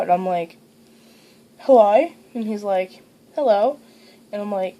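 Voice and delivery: put-on Australian accent; amateur attempt at an Australian accent; learned Australian accent. Shown as a demonstration. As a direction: talk in an imitation Australian accent.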